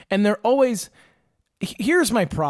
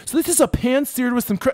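mock eager Harley; 7 semitones higher than usual. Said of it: "He's like".

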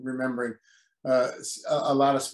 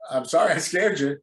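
ordinary talk, nothing marked

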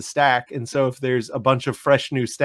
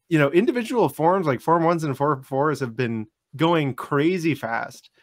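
talking through clenched teeth. Real, not acted. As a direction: speak through your teeth, jaw barely open. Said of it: "that's why I'm talking through my teeth".

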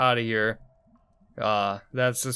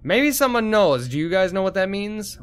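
high mock plea; 8 semitones higher, 4 dB louder than usual. Real, not acted. Player mocks confusing hieroglyphics.

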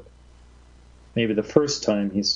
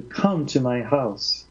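slow, earnest entreaty; entreating; 2 semitones higher, slower than usual. Acted. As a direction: stretch it out as a heartfelt plea. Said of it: "I entreat you".

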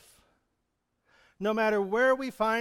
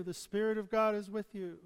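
soft echo; 5 dB quieter than usual. Shown as a demonstration. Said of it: "echo his promises".

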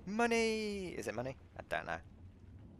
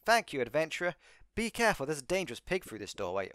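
relieved stranded crewman; 6 semitones higher than usual. Acted. Voices rescued stranded crew member.

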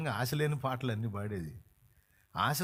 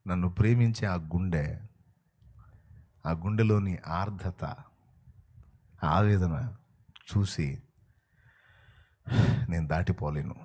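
much lower, tender voice; voice of Jesus; 8 semitones lower than usual. Acted. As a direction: speak as the Lord moved by love. Jesus speaking his heart.

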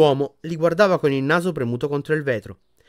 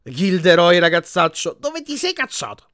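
loud singsong call climbing high; chirping motherly healer; 5 semitones higher, 5 dB louder than usual. A narrator's reading. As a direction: coo a playful scolding to a patient. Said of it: "una voce cinguettò".

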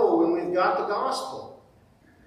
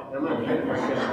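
laughing; 5 semitones lower, much faster than usual. Real, not acted.

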